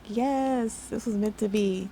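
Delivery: mildly excited, drawn-out yes; lightly re-enacted happy reaction; retold excitement. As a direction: relive a touch of excitement, pitch lifting on yes. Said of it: "I got super excited".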